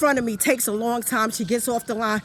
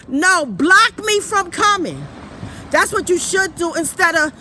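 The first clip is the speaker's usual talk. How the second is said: angry; 2 semitones higher, 4 dB louder than usual. Real, not acted. Ranting at the store.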